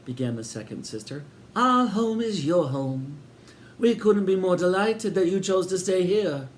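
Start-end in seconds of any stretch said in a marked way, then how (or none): 1.6-6.5 high, sugary welcoming landlady voice; sinister hostess. A narrator's reading. Landlady welcoming Sid and Eric, high and sweet. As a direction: greet them grandly, a touch too sweet. Sister greets the guests.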